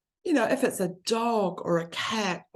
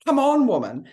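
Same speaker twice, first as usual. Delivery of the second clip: teasing daughter; 6 semitones higher, 8 dB louder than usual. Retold or imitated. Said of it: "I could almost see her laughing at me, going".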